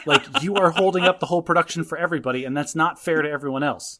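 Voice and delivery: fast heated rant about holding everyone up; heated lecture. Real, not acted. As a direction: get worked up and rattle it off. Lecturing daughter, worked up.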